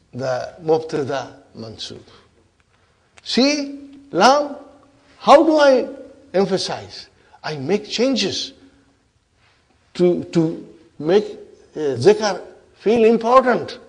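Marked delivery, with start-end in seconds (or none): 3.2-13.8 high-pitched, emphatic mock boast; showing off. Inna shows lam how to emphasize, boastful. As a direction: lecture a rival on how it's done.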